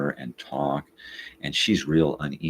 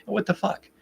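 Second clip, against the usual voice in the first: mock outrage. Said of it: "you know".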